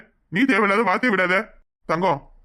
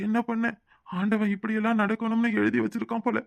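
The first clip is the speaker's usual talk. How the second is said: softer, hushed grieving murmur; quiet lament; 6 dB quieter than usual. Acted. To his unconscious brother-in-law, a soft worried lament.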